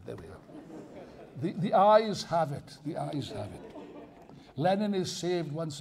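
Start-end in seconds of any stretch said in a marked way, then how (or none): 1.4-2.8 slow, louder formal ruling; mock chairman's ruling. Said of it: "declares vote result". 2.8-3.8 softer, laughing through it; laughing repeat. Pretend. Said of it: "repeats verdict, laughing".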